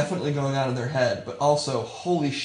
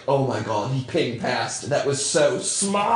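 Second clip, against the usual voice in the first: lightly acted amazed caster; mock announcer amazement; announcer losing his mind; slower than usual. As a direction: build to a drawn-out final word. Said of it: "announcers will lose their mind over".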